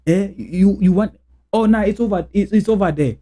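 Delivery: light Nigerian-accented English; a hint of a Nigerian accent on these words. Shown as a demonstration. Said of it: "I speak like I'm a Nigerian".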